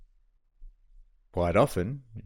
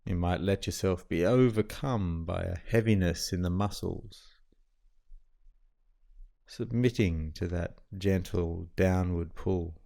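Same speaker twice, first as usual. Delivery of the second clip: calm, even meditation guide with long pauses; guided meditation. Acted. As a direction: settle the listener gently, leaving long silences between phrases.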